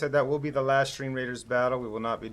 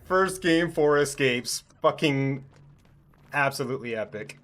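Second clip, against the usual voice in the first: excited; 3 semitones higher, 5 dB louder, slower than usual. Real, not acted. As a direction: cheer the win. Celebrating four escapes.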